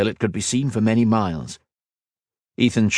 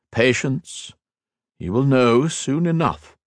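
higher, slow, silky menace; sneering villain; 6 semitones higher, slower than usual. Acted. Shinzan sneering at Ethan over his dead cousin, slow menace. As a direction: savour every cold word.

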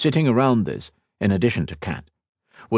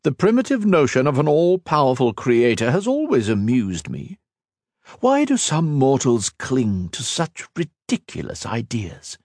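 a lightly voiced immortal villain, scornful; villain Shinzan mocking Ethan's sacrifice, lightly voiced and scornful; cold villain; 5 semitones higher than usual. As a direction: sneer down at a mortal, unhurried. Shinzan mocks belief in God.

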